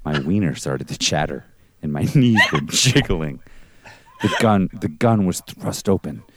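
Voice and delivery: low, hushed spooky telling; storyteller voice. Acted. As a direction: read it like a campfire ghost story. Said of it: "let me get my storyteller voice ready".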